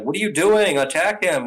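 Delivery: a hammed-up angry commander; mock commander yell. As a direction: bark at soldiers who forgot the fight. Commander yelling at his troops.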